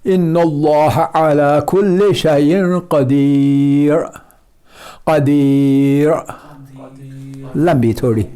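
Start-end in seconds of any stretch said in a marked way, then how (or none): 0.0-6.1 slow recited verse with the ی of قدیر drawn long; Quranic recitation. Shown as a demonstration. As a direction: recite the verse very slowly, in tajweed style. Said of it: "را ساکن سے پہلے یا مدی".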